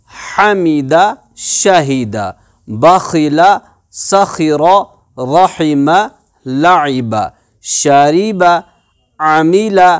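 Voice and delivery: measured recitation, each word whole with a short pause after; evenly paced teacher's model reading; fluent word reading. Shown as a demonstration. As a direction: read the list smoothly for pupils to follow. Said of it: "अब हम इसको रवानी पढ़ेंगे".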